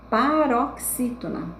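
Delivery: paroxítona said slowly in separated chunks; deliberate teacher's pa-rox-ítona; slow, measured term. Shown as a demonstration. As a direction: spell out paroxítona slowly for the class.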